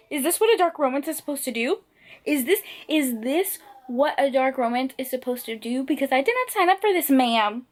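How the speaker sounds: distraught protest. Real, not acted. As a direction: demand an answer, worked up. Protesting what the book did.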